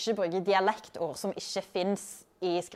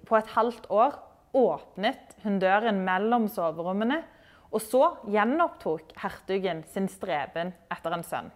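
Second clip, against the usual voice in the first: reading aloud. Acted. Teacher reading a novel passage to learners, gently. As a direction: read the passage like a storyteller. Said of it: "Jeg skal lese litt ifra den første boka".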